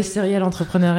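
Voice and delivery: serial entrepreneur in a French accent; accent français. Real, not acted. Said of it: "je le dis avec mon accent, l'accent bien français".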